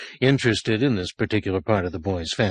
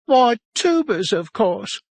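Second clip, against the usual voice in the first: higher, louder, obvious answer; matter-of-fact boy; 13 semitones higher, 4 dB louder than usual. A narrator's reading. Boy answers the sergeant, higher and matter-of-fact. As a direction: state it as plain fact.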